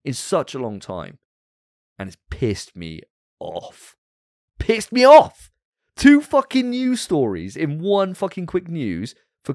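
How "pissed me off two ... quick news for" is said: yelled much higher and louder, real fury; furious shout. Real, not acted. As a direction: explode at the bad news. Ranting about bad news.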